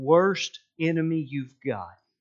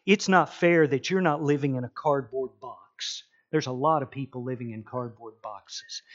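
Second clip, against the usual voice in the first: serious daddy voice. Retold or imitated. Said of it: "in my most serious daddy voice".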